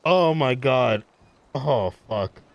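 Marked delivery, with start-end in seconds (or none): 0.0-1.0 giggling fit; can't stop laughing; cracking up mid-line. Real, not acted. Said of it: "I'm laughing at my own ridiculousness".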